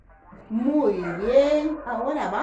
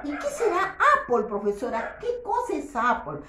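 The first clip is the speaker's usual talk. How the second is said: pretend pupil; 3 semitones higher, faster than usual. Teacher voices a curious pupil.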